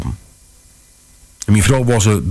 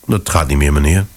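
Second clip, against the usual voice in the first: calm; 5 semitones lower than usual. Acted. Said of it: "zei ik kalm".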